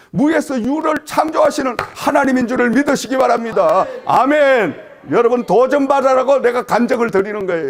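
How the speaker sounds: high, loud pulpit proclamation; fervent sermon climax with shouted amens; full-force preaching. Real, not acted. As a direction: drive it home to the congregation at full voice.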